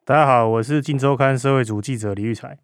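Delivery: muffled behind a face mask; through a face mask. Real, not acted. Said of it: "所以我们都还是戴着口罩录音".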